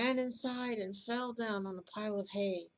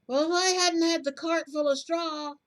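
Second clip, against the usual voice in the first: shouting, higher-pitched robber; higher angry shout; 8 semitones higher, 10 dB louder than usual. Acted. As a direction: pitch up high and yell in protest. Robbers quarrel over the money.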